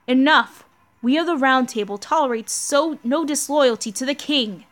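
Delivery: a hint of a solemn knight ending the debate; stern loyal knight. Voices Lancelot defending the king.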